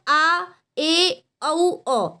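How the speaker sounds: आ, ए, औ each said separately as a clear vowel; vowel demo. Shown as a demonstration. Teacher showing students half-open-mouth vowels, vowel demo. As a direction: sound out आ, ए, औ one by one. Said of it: "आप बोल के देखिए".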